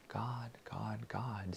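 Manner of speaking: soft unvoiced whisper. Shown as a demonstration. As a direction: whisper the name, fading away. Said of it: "I will whisper".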